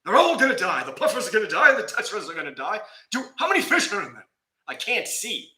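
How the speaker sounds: wife panicking over the muddy tank, high and loud; imitating wife panicking. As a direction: ham up the wife's alarm over the fish. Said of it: "Wendy comes in and she's like".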